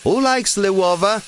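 high, lightly voiced grandmother; a kindly nonna calling to breakfast; Nonna's voice. A narrator's reading. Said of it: "she said".

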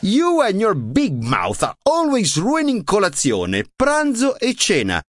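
high, mocking sibling voice; a sibling scolding Wilma, high and mocking; sibling teasing. A narrator's reading. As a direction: taunt her like a bratty brother. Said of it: "said one of i suoi fratelli".

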